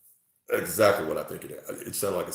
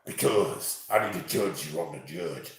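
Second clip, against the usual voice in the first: mocking impression; 4 semitones lower than usual. Mocking the troll judge.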